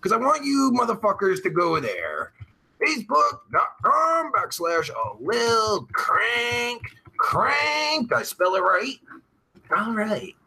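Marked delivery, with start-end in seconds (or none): 2.8-8.1 slow, drawn-out words as if typing them; slow typing-along voice. Real, not acted. Streamer typing out his page link for viewers, slow drawn-out dictation. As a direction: stretch each word, rising higher on "crank crank". Spells out address while typing it.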